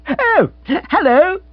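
high, loud, slow hello; drawn-out, lifted greeting; silly gentleman on telephone. Acted. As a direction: call down the line like an upper-class twit. Rory answers on the telephone.

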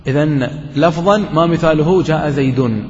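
slow recital of "إذن لفظا ما مثاله جاء زيد"; teacher reads the poem line to students, slow recital; reciting the verse. Shown as a demonstration. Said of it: "قال".

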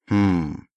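demon's exhaled hm. Acted. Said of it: "выдохнул демон".

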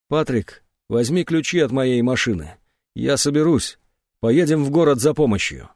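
ordinary delivery, nothing marked

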